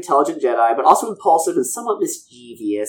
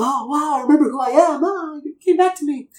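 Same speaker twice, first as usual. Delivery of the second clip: mock sudden realization; 12 semitones higher than usual. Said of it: "Ayla's like".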